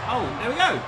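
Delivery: a light put-on high voice; mock reaction line. Showing co-host what to say, light high put-on voice. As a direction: toss it off as a pretend cheer. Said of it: "maybe you've gotta say".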